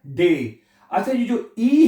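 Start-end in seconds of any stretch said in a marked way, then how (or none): 0.1-0.6 डे with long "ay"; German D as "day". Shown as a demonstration. Teacher answers how D is read, "day". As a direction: say डे like English day. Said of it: "डी को आपने क्या पढ़ना है".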